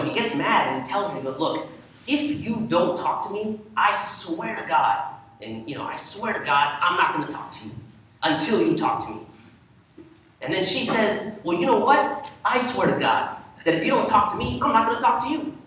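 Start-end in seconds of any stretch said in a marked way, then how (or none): 1.4-9.2 husband's oath. Retold or imitated. Husband's angry oath in story. 11.4-15.6 much higher mock wife voice; wife's reply. Wife answers with same oath.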